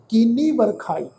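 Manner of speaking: ਕੀਨੀ as one word, then ਵਰਖਾਈ; correct word split. Shown as a demonstration. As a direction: join ਕੀਨੀ and start ਵਰਖਾਈ on the ਵ. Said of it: "ਇਹ ਸ਼ਬਦ ਦਾ ਅਸਲ ਪਾਠ ਹੈ".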